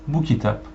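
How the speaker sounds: Bu kitap, Bu pointed and stressed. Shown as a demonstration. Teacher pointing at a book, stress on Bu. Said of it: "you then say".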